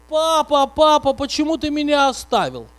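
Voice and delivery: put-on high, loud crying child voice; whimpering child. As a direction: plead like an abandoned little boy. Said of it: "аж заскулил".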